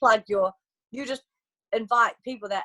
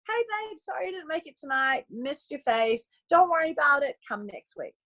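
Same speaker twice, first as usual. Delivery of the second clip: sweet forgiving; 4 semitones higher than usual. Retold or imitated. Recruiter to friend who skipped, forgiving. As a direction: let them off the hook sweetly.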